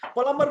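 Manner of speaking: प्लम्बर with the B sounded; common mispronunciation. Shown as a demonstration. Teacher quoting the students' mistake, प्लम्बर with a voiced B. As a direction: say प्लम्बर as pa-lum-bar, B and R heard. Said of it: "प्लम्बर भन्ने शब्द अङ्ग्रेजीमा छैन".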